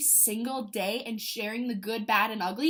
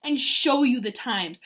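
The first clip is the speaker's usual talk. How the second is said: loud, eager challenge; eager fighter; 7 dB louder than usual. Retold or imitated. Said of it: "I'm like".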